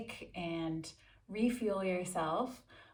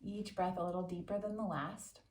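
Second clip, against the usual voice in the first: calm, measured meditation voice with long pauses; guided meditation. Acted. Yoga teacher settles listeners into a quick seated meditation, calm guided-meditation delivery. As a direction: guide them unhurriedly, leaving space after each instruction.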